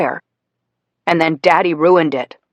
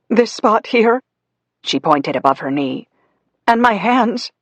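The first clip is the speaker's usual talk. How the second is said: higher, strained mother's voice; pained Mommy; 7 semitones higher than usual. Acted. Burned Mommy showing Daddy her burns, higher strained. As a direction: speak through the pain.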